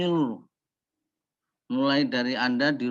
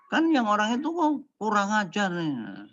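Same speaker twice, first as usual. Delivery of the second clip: higher, put-on grumble at a rude driver; mock outrage at a rude driver; indignant mock complaint; 7 semitones higher than usual. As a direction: grumble like someone splashed by a car. Voicing angry driver's victim.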